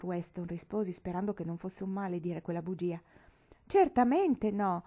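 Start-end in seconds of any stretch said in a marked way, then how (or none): 3.7-4.8 high, loud and slow cry; slow, loud, emphatic denial. A narrator's reading. Nancy assuring Mr Weston there is room, slow loud cry. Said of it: "gridò Nancy".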